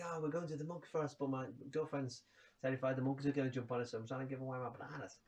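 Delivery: half-hearted Australian impersonation; bad Australian accent. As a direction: imitate an Australian bloke, none too well. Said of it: "this is my really bad Australian accent".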